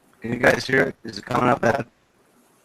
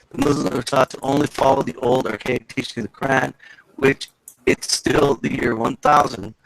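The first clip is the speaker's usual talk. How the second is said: robotic garbled call audio. Real, not acted. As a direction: sounds like a robot on a bad connection. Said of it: "But your voice sounds like a robot now".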